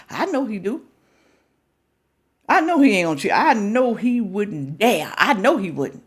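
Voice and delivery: lightly voiced, overconfident woman; hint of a woman in denial; mock naive woman. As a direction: play the woman sure he'd never cheat. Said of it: "you say to yourself".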